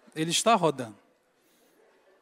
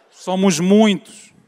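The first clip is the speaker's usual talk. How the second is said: demonic voice; 11 dB louder, much slower than usual. Pretend. Possessed child answers exorcist.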